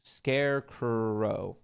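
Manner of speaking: slow Scarecrow said carefully, sounded out; trying out a name. Shown as a demonstration. Reading a viewer's name aloud, slow and careful. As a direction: draw out Scarecrow syllable by syllable. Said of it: "how you'd pronounce your name".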